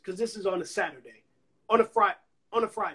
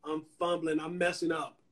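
softer, lower embarrassed mumble; sheepish admission; 4 semitones lower, 7 dB quieter than usual. Retold or imitated. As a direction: own up quietly to blowing it. Confessing he's fumbling.

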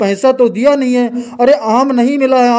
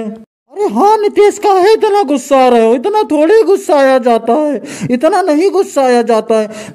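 soothing politician voice; 3 semitones higher than usual. Acted. Politician figure soothing angry guest.

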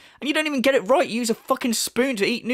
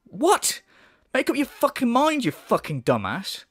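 high, incredulous outburst; exasperated; 4 semitones higher than usual. Real, not acted. Fed up with the critic's contradictory complaints, exasperated. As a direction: snap at him in disbelief.

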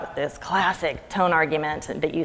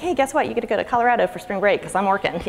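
excited mom; 4 semitones higher, faster than usual. Retold or imitated. Mom announcing trip to daughter.

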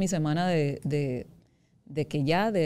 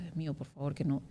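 hushed plea; 2 semitones lower, 9 dB quieter than usual. Retold or imitated. Patient retelling her prayer before the scan, hushed plea. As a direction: plead under your breath, as if recalling it.

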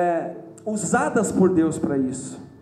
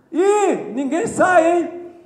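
higher, louder playful heckle; shouted from the corner; 8 semitones higher, 5 dB louder, much slower than usual. Retold or imitated. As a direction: call out teasingly from the back pew. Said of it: "um gritava ali no canto assim".

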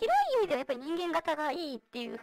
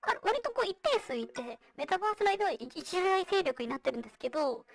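vocoder; 3 semitones higher than usual. Real, not acted. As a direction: voice changer voice. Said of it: "今私がやってるようにボイスチェンジャー使ってる". (ボイスチェンジャーの声)

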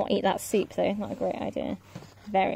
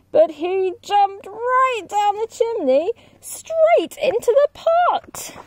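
higher, excited storytelling; dramatic narration; 12 semitones higher, 5 dB louder than usual. A narrator's reading. Narrator telling the wolf blowing houses down, excited and lively. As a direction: build the suspense for the kids.

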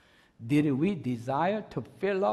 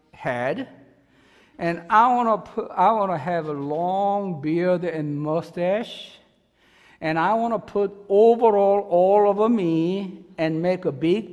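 louder, building eager list of wishes; excited; 2 semitones higher, 6 dB louder than usual. Real, not acted. Pastor telling church his redneck dream, excitedly louder. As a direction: gush about wanting to be a redneck.

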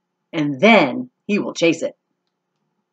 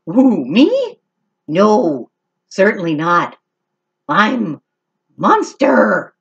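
squeaky mouse; 2 semitones higher, 3 dB louder, slower than usual. Acted. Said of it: "squeaks Mouse".

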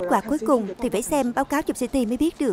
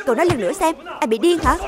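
angry challenge; 3 semitones higher, 4 dB louder than usual. Acted. Quarrel over queue jumping.

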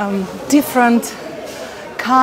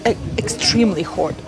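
mouth burning; 4 dB quieter than usual. Real, not acted. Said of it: "It's too hot".

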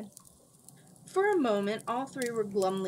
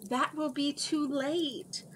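urgent cry; 7 semitones higher, slower than usual. A narrator's reading. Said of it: "Cimmerian cried".

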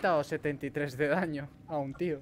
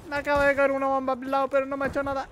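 excited; 9 semitones higher, 7 dB louder, faster than usual. Real, not acted. Bomb just landed nearby.

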